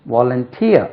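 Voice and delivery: Volunteer with the last syllable stressed; pronunciation demo. Shown as a demonstration. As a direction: model Volunteer as vo-lun-TEER. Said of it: "உச்சரிப்பு கவனிங்க".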